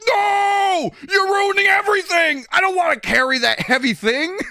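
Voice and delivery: very high, loud mock shriek; retold outraged outburst, screamed high; imitating furious yelling. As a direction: yell in hammed-up fury. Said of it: "she was furious 'cause she's like".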